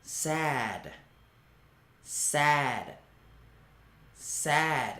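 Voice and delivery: soft, drooping sad word; mock sad. Shown as a demonstration. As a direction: sound a little sorry for yourself. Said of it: "伤心".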